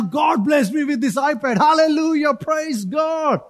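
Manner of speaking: mock jubilant praise. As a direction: act out a greedy believer's false joy.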